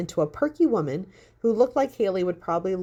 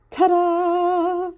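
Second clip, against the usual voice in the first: much higher, loud flourish; triumphant ta-da; 12 semitones higher, 5 dB louder than usual. A narrator's reading. Haley finds the book, loud triumphant flourish. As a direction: sing it like a magician's reveal.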